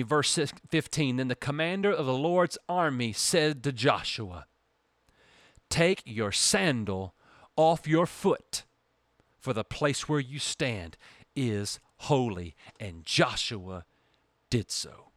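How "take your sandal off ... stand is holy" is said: slow, low and grave command; solemn divine command. Acted. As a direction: order him gravely, word by word. Commander orders Joshua.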